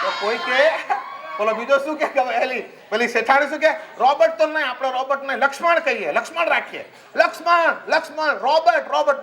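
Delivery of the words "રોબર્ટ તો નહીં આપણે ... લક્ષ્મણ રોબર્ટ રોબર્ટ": calling out. Retold or imitated. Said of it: "બૂમો પાડે".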